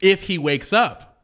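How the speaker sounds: slow, loaded warning; ominous. Pretend. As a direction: let it hang, slow and sinister.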